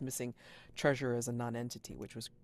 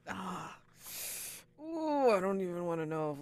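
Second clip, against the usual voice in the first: dreading squeal; 7 semitones higher than usual. Retold or imitated. Retold dread at a painful question.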